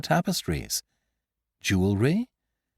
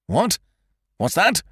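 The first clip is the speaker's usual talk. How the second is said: high, louder demand; roar; 8 semitones higher, 3 dB louder than usual. A narrator's reading. Magistrate roaring at Beautrelet's claim, astonished roar. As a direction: bellow your disbelief. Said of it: "roared Monsieur Filleul".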